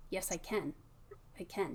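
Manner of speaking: "Yes, I can" with the eh as in bed kept full; stressed can. Shown as a demonstration. Teacher models the stressed form. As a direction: hold "can" stressed, no schwa. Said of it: "still keeping it kind of stressed".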